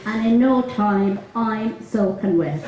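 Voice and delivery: put-on giggling through a Dublin accent; laughing. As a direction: barely hold it together in Dublin accent. Laughs through the sketch punchline.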